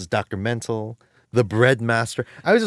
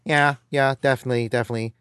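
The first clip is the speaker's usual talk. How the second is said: lightly voiced mumbling Sea Urchin, a hint of Rain Man; a quick light Rain Man impression; half-hearted Rain Man-style mumble; faster than usual. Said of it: "he talks like this".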